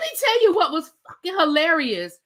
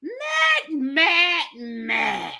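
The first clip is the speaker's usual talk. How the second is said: imitated call that drops away; calling out Matt; much slower than usual. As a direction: yell his name and let it sink. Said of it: "she was like".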